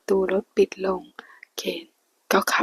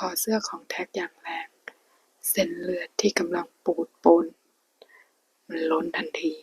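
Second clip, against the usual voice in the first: hushed storyteller reading a Thai romance aloud; whispered story reading. A narrator's reading. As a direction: read the novel in a hushed whisper.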